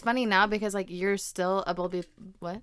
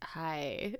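laughing hi; 3 semitones lower, 8 dB quieter than usual. Retold or imitated. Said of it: "the way you said it".

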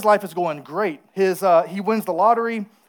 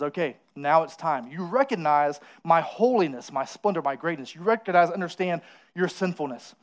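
voice of the Lord; 2 semitones lower, 4 dB quieter than usual. Acted. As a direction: speak as God, grave and hushed. The Lord speaking to David.

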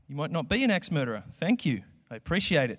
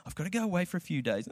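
put-on whiny kid; 4 semitones higher, 5 dB quieter, faster than usual. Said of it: "five-year-old kid who dad says".

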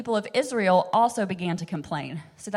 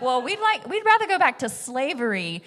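mock whine; 6 semitones higher, 5 dB louder than usual. Voicing ungrateful Israelites.

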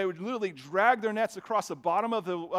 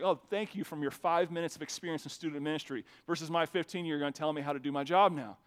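sarcastic; 2 semitones lower than usual. Retold or imitated. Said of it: "I'm like".

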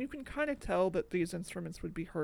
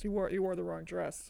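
corrected leading man line; 2 semitones lower, 4 dB quieter than usual. Retold or imitated. Host settling the exact movie quote, quieter. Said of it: "that's what he says".

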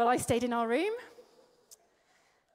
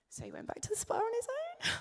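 whisper; 10 semitones higher, 4 dB quieter than usual. Real, not acted. Punchline about husband leaving alone.

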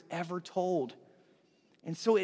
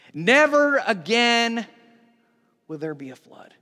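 slow solemn repeat; 4 semitones higher, 6 dB louder, slower than usual. Retold or imitated. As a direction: stretch it out and let it fade. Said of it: "he repeats that".

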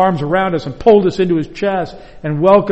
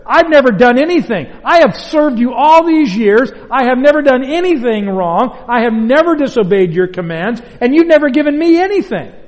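growing bitterness; 3 semitones higher than usual. Acted. Older son accusing his father, more and more bitter. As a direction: spit out years of grievance. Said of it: "more and more bitter".

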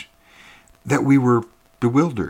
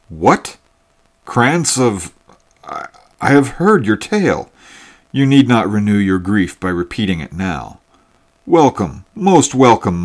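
louder, eager welcome to a long-lost cousin; glad cry of recognition; 5 dB louder than usual. Acted. Hunter greets his newfound cousin by the fire, loud and eager. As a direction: burst out warmly, recognising kin. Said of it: "cried the hunter".

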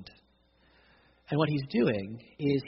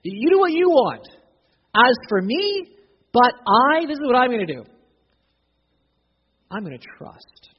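psalmist's vow; 9 semitones higher, 11 dB louder than usual. Retold or imitated. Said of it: "That's what the psalmist is saying".

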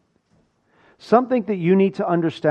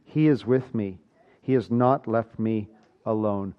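soft and low, stressing "not"; hushed, lingering affirmation; quiet, solemn promise; 6 semitones lower, 6 dB quieter than usual. Acted. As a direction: speak it as a comfort to yourself. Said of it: "a promise that you can actually appropriate".

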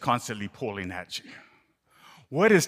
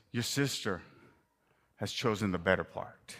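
tender but pointed; 3 semitones lower, 4 dB quieter than usual. Acted. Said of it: "he's tender, but yet he's pointed".

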